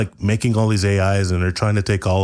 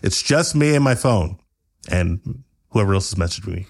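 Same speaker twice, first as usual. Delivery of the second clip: annoyed YouTuber voice; 2 semitones higher, faster than usual. Acted.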